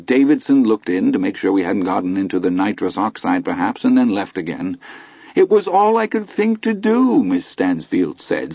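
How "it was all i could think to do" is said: high, laughing voice. A narrator's reading. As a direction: say it through laughter. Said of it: "still laughing".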